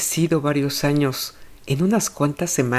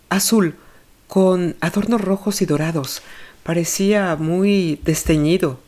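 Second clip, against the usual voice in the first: lightly voiced mother, pitched up and uneasy; a hint of a worried mother answering questions; anxious mother; 3 semitones higher than usual.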